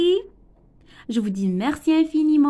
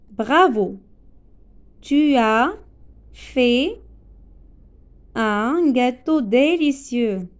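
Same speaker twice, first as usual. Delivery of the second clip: louder "bravo", slow "un gâteau délicieux"; praising exclamation; 3 dB louder, slower than usual. Shown as a demonstration. Teacher demonstrating praise to a pupil, louder exclamation. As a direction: praise the pupil's cake, slowly. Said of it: "C'est une phrase exclamative".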